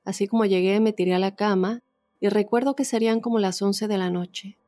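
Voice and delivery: measured read-aloud testimony, pauses between phrases; story narration. A narrator's reading. Host reads a listener's ghost story to the audience, story narration. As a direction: read it out as a first-person true tale.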